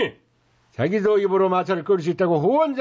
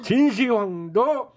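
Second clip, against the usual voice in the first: brash hawker's sales pitch; snake oil seller. Acted. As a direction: hype the cure-all to the crowd.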